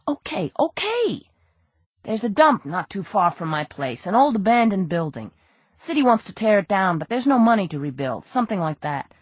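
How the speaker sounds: high, pleading small-time crook; a nervous crook begging his innocence; whiny crook voice. Acted. Nervous crook pleading with detective Andy, high and whiny.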